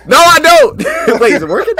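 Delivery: high laugh breaking into words. Real, not acted. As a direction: laugh through the question. Laughs at teasing about mic.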